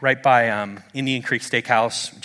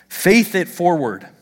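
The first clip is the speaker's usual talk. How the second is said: slow, higher-pitched declaration; slow, raised, insistent slogan; emphatic slogan; 5 semitones higher, 4 dB louder, slower than usual. Real, not acted. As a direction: lift it and land each word deliberately. Repeated slogan, rising take.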